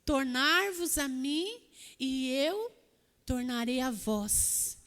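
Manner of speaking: versículo dito devagar; leitura lenta. Shown as a demonstration. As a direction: leia solene e pausado. Repete o versículo, mais solene. (leitura bíblica solene e lenta)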